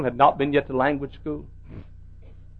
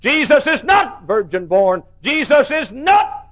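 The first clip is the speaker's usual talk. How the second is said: higher, slow, laughing mock quote; mocking the liberal preacher; 7 semitones higher, 4 dB louder, slower than usual. Pastor retelling the liberal preacher, laughing mockery. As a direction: ridicule his words while laughing. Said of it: "he would speak through the interpreter".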